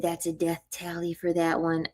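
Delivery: a quiet, sinister aside to herself; retold whisper. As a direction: hush it out as a private aside. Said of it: "whispered to myself".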